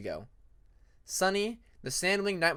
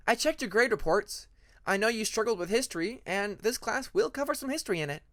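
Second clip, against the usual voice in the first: lightly voiced higher, gentle teacher; a hint of a caring teacher, higher up; kind teacher Sunny; 6 semitones higher than usual. Teacher Sunny reassuring her new student, lightly higher voice.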